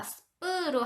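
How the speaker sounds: 스프로 with a tensed p like ㅃ; tense sp. Shown as a demonstration. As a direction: say 스프로 with a hard ㅃ. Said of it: "스프로 발음하시면 안 되고요". (스프로, 된소리로)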